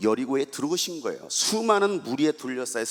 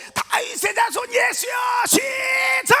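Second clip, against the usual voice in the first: much higher, louder call to the congregation; leading a shout; 7 dB louder, slower than usual. Real, not acted. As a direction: rouse them to cry out together. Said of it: "크게 한번 불러볼 겁니다". (회중을 이끄는 큰 외침)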